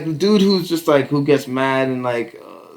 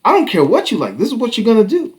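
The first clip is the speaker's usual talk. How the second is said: louder, higher, laying down the law; stern parent; 10 semitones higher, 5 dB louder, faster than usual. Retold or imitated. Parent scolding son, loud and firm. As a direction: bark the rule at the kid.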